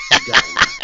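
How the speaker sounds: squeaky high mock siren voice; mock alarm.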